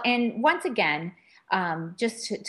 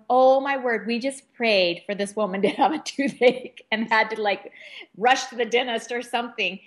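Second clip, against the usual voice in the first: retold giddy amazement; 3 semitones higher than usual. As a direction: relive the giddy surprise, almost laughing. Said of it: "almost just laughing, going".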